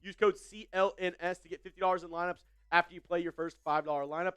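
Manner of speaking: quick, polished sponsor read; fast ad read. Acted. Streamer reading a sponsor spot to viewers, fast ad voice. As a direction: rattle off the ad like a pitchman.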